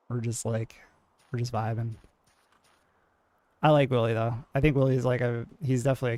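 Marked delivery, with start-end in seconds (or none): 0.1-1.9 laid-back, even delivery; mellow monotone. Shown as a demonstration. Streamer contrasting own chill style with shoutcaster's, mellow monotone. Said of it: "mellow and, like, monotoned".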